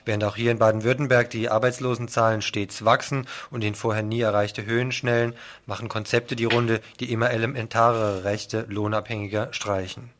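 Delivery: steady radio news reading. Acted. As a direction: read the headlines like a radio presenter. Reads the programme preview.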